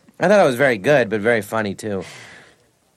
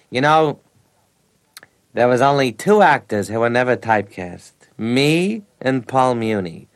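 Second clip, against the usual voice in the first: a hint of a boastful old actor, last words slow; imitating Ned Glass; 4 dB louder, slower than usual. Old actor boasting to a teenage John, lightly voiced. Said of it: "And he says".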